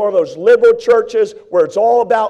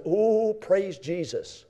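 quiet relieved praise; 11 dB quieter, much slower than usual. Retold or imitated. Sigh of relief.

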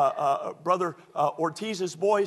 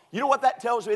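same question, higher and louder now; rising build; 6 semitones higher, 3 dB louder, faster than usual. Shown as a demonstration. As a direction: push it up, building toward the climax. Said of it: "builds the same question up".

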